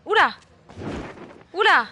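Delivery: loud, high startled yelp; startled exclamation. Real, not acted. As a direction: jump in surprise. Startled in horror game. (exclamation surprise)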